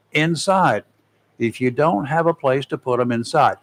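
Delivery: measured announcer read, list items set apart; advising listeners, emphatic on key items; radio preparedness tips. Acted. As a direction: read out a storm checklist on air.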